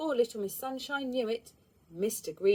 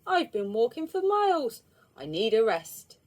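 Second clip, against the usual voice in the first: moaning; 5 dB louder than usual. Acted. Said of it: "he moaned".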